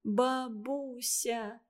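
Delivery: put-on slow, pensive child voice; thoughtful. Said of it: "произнесла задумчиво".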